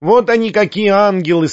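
high-pitched squeak of praise; squeaky praise. A narrator's reading. Perepelitsyna praising Foma in a squeak. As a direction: squeak it out admiringly. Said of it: "пропищала".

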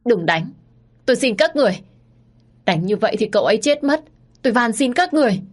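high, loud tearful begging; khóc lóc van xin. Acted. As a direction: plead through tears for them to stop. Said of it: "Tôi lúc này vẫn cứ khóc lóc". (cô hầu khóc lóc van xin bọn cướp đừng đánh cậu)

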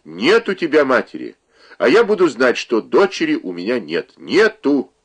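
furious mother disowning her daughter; mother's angry shout. Acted. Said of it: "крикнула она".

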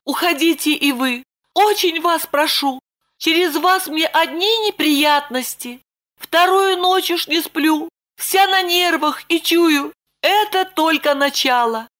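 put-on high, begging young woman; Lipochka pleading. A narrator's reading. Lipochka begging Roman to leave, high pleading voice. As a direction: plead with him to go. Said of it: "взмолилась".

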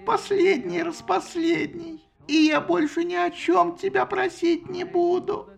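high, slow begging; pleading Athena. A narrator's reading. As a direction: beg like a child.

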